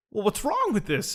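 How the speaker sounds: mildly frustrated mock question; imitated frustration. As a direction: act out his baffled frustration. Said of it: "he was frustrated".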